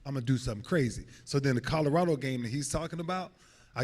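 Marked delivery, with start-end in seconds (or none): 0.0-1.0 high, hyped-up boast; cocky young self. Retold or imitated. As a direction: brag like a cocksure teen. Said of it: "I was like".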